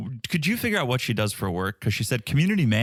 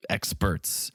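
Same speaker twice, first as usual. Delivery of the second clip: whispered afterthought; 3 semitones lower, 5 dB quieter than usual. Real, not acted. Trailing guess.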